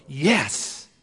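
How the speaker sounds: mock stoked exclamation; a lightly voiced excited yes, like a fan. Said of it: "you're really stoked, you go".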